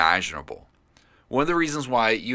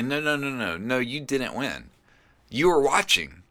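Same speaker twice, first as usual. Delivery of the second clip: higher-pitched, mock-correcting objection; mildly sarcastic; 4 semitones higher than usual. Sarcastic part of him correcting the celebrating fans, mildly sarcastic. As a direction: set the fans straight with a touch of sarcasm. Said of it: "this sarcastic part of me".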